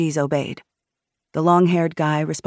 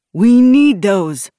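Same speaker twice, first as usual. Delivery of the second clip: high, drawn-out objection; loud protest; 6 semitones higher, 10 dB louder, much slower than usual. A narrator's reading. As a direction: object slowly and loudly. Man protests seizure of weapons.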